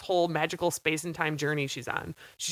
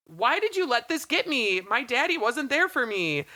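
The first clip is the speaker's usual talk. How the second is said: hammed-up tearful whine; whiny crying girl; 7 semitones higher than usual. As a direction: whine like a spoiled child missing her daddy. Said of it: "I'll show you".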